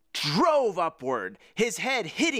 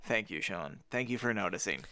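mock humble thanks; 8 semitones lower, 7 dB quieter than usual.

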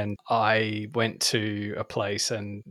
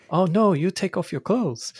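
high, slow, louder put-on voice; imitated masseuse; 9 semitones higher, 5 dB louder than usual. Masseuse to confused client about clothes, high mock instruction.

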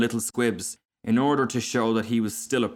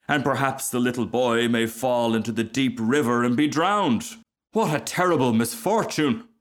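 lightly melodramatic storyteller; self-important Rocket, lamenting; 3 semitones higher than usual. Acted. Rocket imagines the little boy drowned, mildly melodramatic. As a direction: spin out the tragedy, building to mild mock distress.

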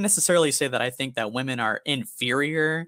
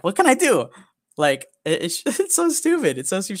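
laughing disbelief; 8 semitones higher, 5 dB louder than usual. Real, not acted. Laughing exasperation retold.

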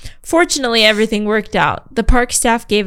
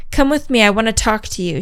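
Karen voice. Acted. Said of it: "classic Karen voice".

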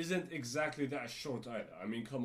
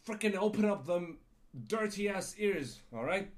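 mock rant; 3 semitones higher than usual. Venting at the agent, half imagined.

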